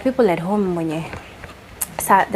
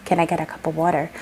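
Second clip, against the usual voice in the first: "water" said with an American twang. Shown as a demonstration. Kenyan showing how Americans understand her, American twang. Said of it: "like, twang".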